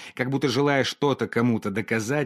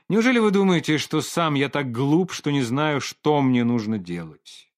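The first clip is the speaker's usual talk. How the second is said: irritated retort; 3 semitones higher than usual. Acted. Painter snaps at Olga for advising him, irritated and raised. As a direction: bristle at being told what to do. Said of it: "поморщился художник".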